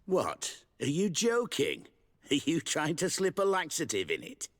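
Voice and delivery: high, disbelieving questions; can't believe what he's hearing; incredulous. Acted. Incredulous at the prank idea.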